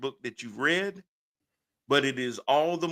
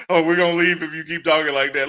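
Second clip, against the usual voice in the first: mock sponsor; 5 semitones higher, 6 dB louder than usual. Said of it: "sponsors that say".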